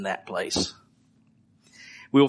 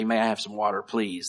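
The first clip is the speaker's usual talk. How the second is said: polite request; 3 semitones lower, 6 dB quieter than usual. Retold or imitated. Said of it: "I try to get them to say".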